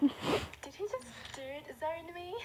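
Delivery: slow, stunned disbelief; disbelieving. Real, not acted. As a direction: drag out the shocked question. Disbelief at the reply.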